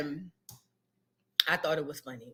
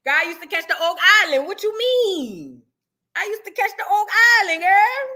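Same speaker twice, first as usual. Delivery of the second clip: excited; 7 semitones higher, 5 dB louder than usual. Real, not acted. Excited bus-route memory.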